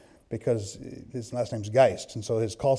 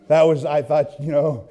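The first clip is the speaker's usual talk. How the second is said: normal talking voice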